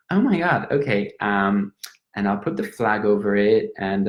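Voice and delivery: a lightly voiced, chatty Irish woman, gushing. An Irish woman in a pub chatting up a Frenchman, lightly voiced and gushing. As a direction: gush over the cute Frenchman, all sympathy.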